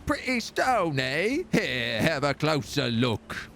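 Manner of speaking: sly coaxing voice, last words slow; voice in the head. Acted. A hint of a mysterious voice luring the hero to the stone. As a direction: tempt the hero to look closer. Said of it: "a voice in your head says".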